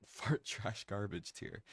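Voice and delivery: slow words through a laugh. Real, not acted. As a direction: laugh while you trash it. Laughing at own ranking.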